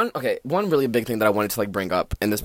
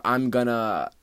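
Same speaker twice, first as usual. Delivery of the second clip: white savior parody; 3 semitones higher, 5 dB louder than usual. Retold or imitated. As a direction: ham up a self-righteous crusader. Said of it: "Mister White Savior".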